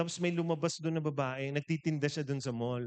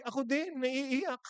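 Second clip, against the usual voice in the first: high, imitated near-crying; mock tearful; 9 semitones higher, slower than usual. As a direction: act out a husband welling up too. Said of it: "Nag-iiyakan sila". (kunwaring naiiyak na rin)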